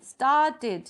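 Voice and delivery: स्टार्टेड as staa-ted, both beats distinct; teacher sounding out स्टार्टेड; two-syllable demo. Shown as a demonstration. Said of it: "means two syllable". (स्टार्टेड को स्टा-टेड, दो हिस्सों में बोलें)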